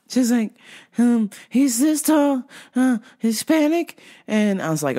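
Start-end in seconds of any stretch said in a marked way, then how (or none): 1.0-4.0 slow, hesitant imitation of a customer; lightly voiced vague, searching customer; confused customer. Customer describing the man to the clerk, lightly voiced, hesitant.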